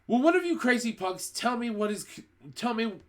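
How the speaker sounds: high, loud, angry demand; boy shouting at the witches, high and loud. A narrator's reading. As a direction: yell at the crowd for answers. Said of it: "shouted Bruno".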